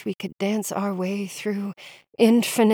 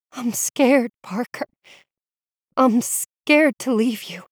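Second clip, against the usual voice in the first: voice cracking with grief; 3 semitones higher, 5 dB louder than usual. A narrator's reading. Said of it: "my voice cracking with grief".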